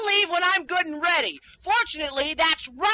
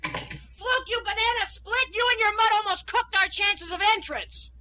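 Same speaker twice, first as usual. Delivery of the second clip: angry scolding; 5 semitones higher than usual. Acted. Scolding partner after near slip.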